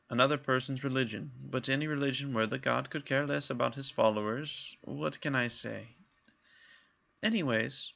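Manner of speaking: put-on light lilting Irish accent held through; Irish-ish accent. Catriona describing Garrick and saying goodbye, light Irish accent. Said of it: "I'm still doing that accent".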